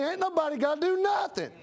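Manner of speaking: high, shouted denial; preaching shout. Real, not acted. Preacher rebuts, then repeats.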